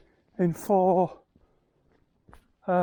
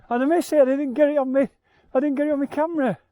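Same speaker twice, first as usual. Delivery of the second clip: excited, louder; 5 semitones higher, 5 dB louder, much faster than usual. Real, not acted. Missed photo of reindeer.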